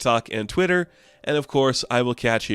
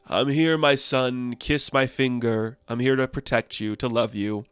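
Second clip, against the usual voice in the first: mock tender; 4 dB quieter than usual. Megatron voiced comforting Soundwave.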